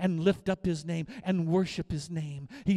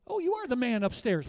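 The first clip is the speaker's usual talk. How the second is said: mock irreverent greeting; 5 semitones higher than usual. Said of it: "We're not gonna do that either".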